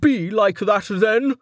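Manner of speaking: a sulky dismissal of her keeper; grumpy Velika. A narrator's reading. Velika brushing off her minder, curt.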